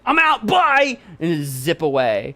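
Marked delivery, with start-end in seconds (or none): 0.0-1.0 high, loud squeal of a fleeing cat; frightened cat voice; scared cat fleeing. Retold or imitated. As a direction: yelp it and bolt. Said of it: "she'd be like".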